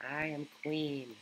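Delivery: a slow, haughty queen. Pretend. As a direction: play a lofty queen. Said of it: "that's enough queen time".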